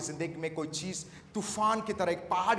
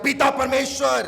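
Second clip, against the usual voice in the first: raised, higher-pitched call to God; in a high, loud voice; 6 semitones higher, 12 dB louder than usual. Shown as a demonstration. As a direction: show the congregation how loudly to say it. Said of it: "ऊंची आवाज में". (ऊँची आवाज़ में)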